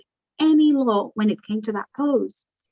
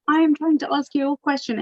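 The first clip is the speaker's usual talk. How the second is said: mock angry outburst, higher-pitched; retold aggressive yell; 5 semitones higher than usual. Activist imitating the officer who yelled at her, mildly aggressive. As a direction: imitate an aggressive questioner snapping, only half yelled. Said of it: "he just aggressively yells and hits the table".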